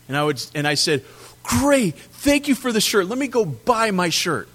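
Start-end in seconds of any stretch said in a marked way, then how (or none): 1.4-4.5 higher, breezy thank-you; mock cheerful thanks. Husband answering wife's gift, mock cheerful. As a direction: sound pleased but miss the point.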